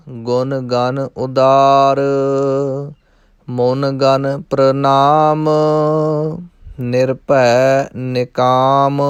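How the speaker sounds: slow, measured verse recitation with drawn-out endings; scripture recitation. Shown as a demonstration. Teacher models Gurbani verse for learners, slow measured recitation. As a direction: recite line by line, holding the long vowels.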